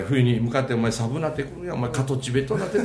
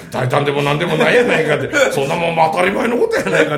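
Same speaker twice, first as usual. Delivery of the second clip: louder rakugo retort, mildly indignant; rebuking neighbour; 2 semitones higher, 6 dB louder than usual. Acted. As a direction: cut down a friend's complaint. Neighbour rebukes complaining husband.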